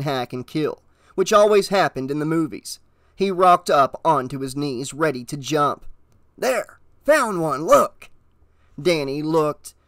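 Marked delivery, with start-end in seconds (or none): 6.4-8.1 eager, higher exclamations; bursting out, louder on the last word; triumphant stranger. A narrator's reading. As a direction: show off a lucky find. Stranger triumphantly produces a dollar.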